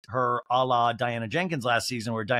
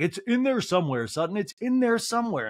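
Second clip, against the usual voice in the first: higher, insistent impression; Garcelle; 7 semitones higher than usual. Housewife reassuring friend hunting for trousers, high insistent impression. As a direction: insist with pitch climbing on the repeat. Mimics Garcelle calling to Sutton.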